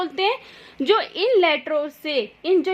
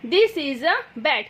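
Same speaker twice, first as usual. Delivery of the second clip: slow example sentence; much slower than usual. Shown as a demonstration. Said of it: "जैसे कि तुम".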